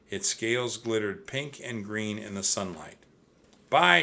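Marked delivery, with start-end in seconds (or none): 3.7-4.0 high, loud cheerful goodbye; shouting. A narrator's reading. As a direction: call farewell across the water. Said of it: "shouted Annie".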